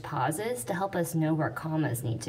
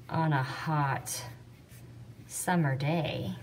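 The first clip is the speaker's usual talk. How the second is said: slow reading with pauses; 2 semitones lower, 3 dB quieter, much slower than usual. Shown as a demonstration. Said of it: "there's a nice pause after that".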